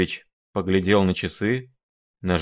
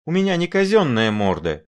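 squealing; 8 semitones higher than usual. A narrator's reading. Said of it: "взвизгнул Шариков".

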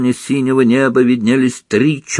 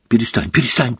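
hysterical; faster than usual. Acted. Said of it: "замахала руками Гермиона в истерике".

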